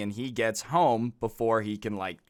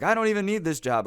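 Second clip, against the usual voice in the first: going off; 9 semitones higher than usual. Retold or imitated. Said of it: "someone's just going off on you".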